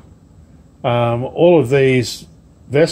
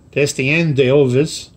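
Destien d'Elvis drawn out slowly in a put-on French accent; French accent retry; slower than usual. Shown as a demonstration. Vlogger retries the French ship name Destien d'Elvis in a mock French accent. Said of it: "how's my French accent? Terrible".

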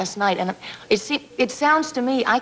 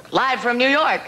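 show opener call; 3 semitones higher than usual. Retold or imitated. Retold opening of Saturday Night Live.

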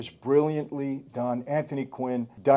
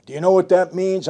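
mildly heated retold question; 4 semitones higher, 6 dB louder than usual. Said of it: "he says".

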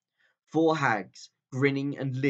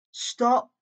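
witch's command; 11 semitones higher, 6 dB louder than usual. A narrator's reading. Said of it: "said the witch".

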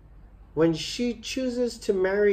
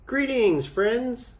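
genie; 7 semitones higher than usual. Acted. Genie greets from the lamp.

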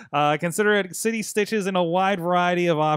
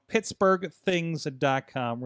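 pittsburgh things dot com said very slowly, word by word; ad-read pace, every word apart; slow, spelled-out plug; much slower than usual. Shown as a demonstration. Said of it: "Really easy to remember that".

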